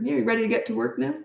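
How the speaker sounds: quick, breezy, unfazed; unbothered. Shown as a demonstration. Coach shows how he answers an arguing kid, breezy. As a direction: brush off the arguing lightly and move on. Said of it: "It's like that".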